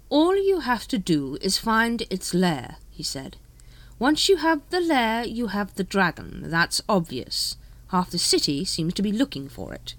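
lightly voiced patrician, slow and emphatic; exasperated ruler. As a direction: lay it out slowly for a dim subordinate.

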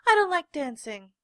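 refuse, too loudly; stubborn protest. A narrator's reading. Little rabbit refuses to dance, loud. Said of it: "he said".

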